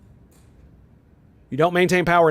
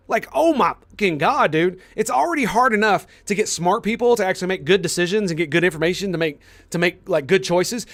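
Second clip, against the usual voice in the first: heated; 3 semitones higher than usual. Real, not acted. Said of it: "sorry to get so heated".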